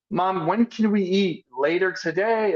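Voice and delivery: a hint of an eager kid asking mom when dinner is; child asking. Kid asking mom when they can eat, mildly childlike. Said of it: "your children are like".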